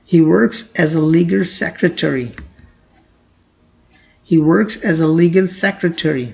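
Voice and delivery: very slow, clear example; slow model sentence. Shown as a demonstration. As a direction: read it slowly for learners. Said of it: "example read slowly twice". (धीमा उदाहरण वाक्य)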